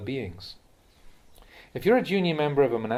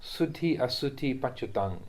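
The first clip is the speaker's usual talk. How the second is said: recited verse; 4 dB quieter, slower than usual. Shown as a demonstration. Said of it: "recite the verse to yourself".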